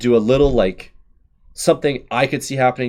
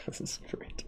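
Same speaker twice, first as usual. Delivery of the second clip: breathless whispered delight; 20 dB quieter than usual. Real, not acted. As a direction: whisper it as if you can't believe it. Excited whisper over bracket result.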